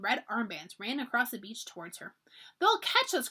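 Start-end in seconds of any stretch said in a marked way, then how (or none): 2.6-3.3 frightened cry. A narrator's reading. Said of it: "cried Molly".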